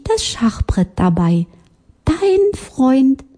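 hohe, freundliche Spatzenstimme; höflich und behutsam vorschlagen; Spatz schreibt Brief. Acted. Spatz liest seinen Brief. (Spatz liest seinen Brief mit hoher Stimme)

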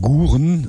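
Saxon "Guren" for Gurken; Saxon pronunciation. Shown as a demonstration. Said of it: "ein G und ein K verwechseln".

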